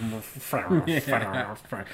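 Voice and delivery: mock mutter. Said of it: "when he mumbles, it just says mutters".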